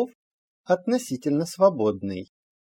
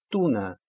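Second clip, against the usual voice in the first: туна stressed on ту, falling away on на; stress on penultimate syllable; 2 semitones lower than usual. Shown as a demonstration. Teacher shows the exception for learners, stress on ту in туна. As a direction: hit ту in туна and let на drop. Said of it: "на предпоследний слог".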